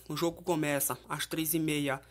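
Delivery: ordinary delivery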